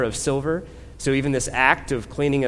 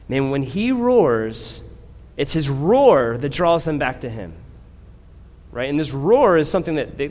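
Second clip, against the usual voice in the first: impassioned preaching; 4 dB louder than usual. Acted. Preaching section on the roar.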